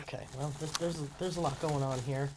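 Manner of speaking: soft hushed whisper. Real, not acted. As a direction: whisper while watching closely. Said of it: "Everyone shh".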